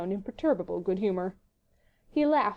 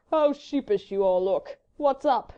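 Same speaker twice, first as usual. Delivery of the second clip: slow drawl lifting at the question; foppish gentleman; 3 semitones higher, 4 dB louder, slower than usual. A narrator's reading. Sir Percy teasing a silent company, foppish drawl. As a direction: drawl it out with idle curiosity.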